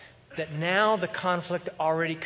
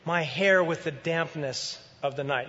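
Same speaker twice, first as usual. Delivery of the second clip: wooing husband. Acted. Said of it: "He says".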